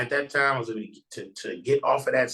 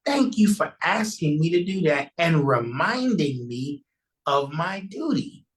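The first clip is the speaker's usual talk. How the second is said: lightly voiced minister; 5 semitones higher than usual. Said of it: "He said".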